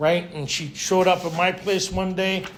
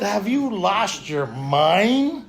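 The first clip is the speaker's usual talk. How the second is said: mock indignant retort; 3 semitones higher, 5 dB louder, much slower than usual. Retorts to fiancée's manual.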